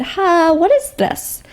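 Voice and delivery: high-pitched curious query, acted out; mock-intrigued, lifted question; puzzled, retold. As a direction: act out being baffled by a menu item.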